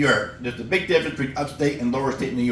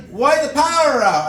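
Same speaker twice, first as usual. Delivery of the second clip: higher, slow puzzled question; dim customer; 9 semitones higher, 3 dB louder than usual. Retold or imitated. Customer puzzled at the clerk, higher and slow. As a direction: ask slowly, baffled.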